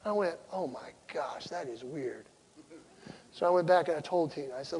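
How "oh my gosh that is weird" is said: hushed amazement. Retold or imitated. Retold private realisation after prayer.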